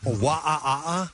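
crazy monkey. Retold or imitated. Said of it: "Like a crazy monkey".

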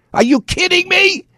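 very high, squealed disbelief; incredulous outburst. Real, not acted. Host escalating over the report, utterly incredulous. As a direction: pitch shooting right up in outrage. Repeats the outraged question, escalating.

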